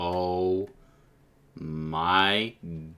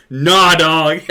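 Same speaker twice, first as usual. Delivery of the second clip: bot voice; 8 semitones higher, 11 dB louder than usual. Retold or imitated. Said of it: "and Nightbot was like".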